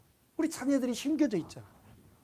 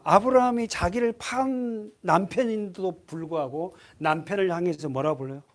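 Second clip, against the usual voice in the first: ordinary talk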